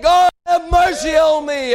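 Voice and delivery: high, ringing cry for mercy; lifted voice. Acted. Blind men lifting their voices to Jesus, crying out. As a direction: cry it out to God, pleading. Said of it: "They lifted up their voice".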